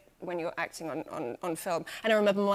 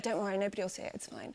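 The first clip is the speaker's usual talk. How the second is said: mock reassurance; 7 dB quieter, faster than usual. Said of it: "and they were all like".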